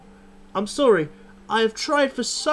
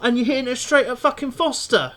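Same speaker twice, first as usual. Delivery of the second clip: exasperated; 5 semitones higher, 4 dB louder than usual. Real, not acted. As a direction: drag out the disbelief. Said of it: "I'm absolutely seething".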